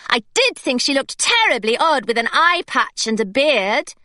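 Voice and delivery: lightly voiced schoolgirl; slightly breathless innocent excuse; a hint of the eager girl. A narrator's reading. Claire distracting the secretary.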